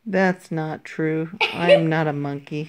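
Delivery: laughing. Real, not acted. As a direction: protest while laughing. Protesting through laughter.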